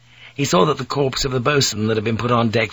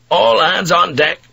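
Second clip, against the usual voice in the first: loud, raised call to the crew; urgent shout; 7 semitones higher, 6 dB louder than usual. A narrator's reading. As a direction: shout the order across the ship. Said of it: "Blackthorne shouted".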